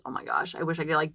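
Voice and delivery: unvoiced, soft regretful gasp of words; whispered aside. Real, not acted. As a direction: breathe it out in dismay.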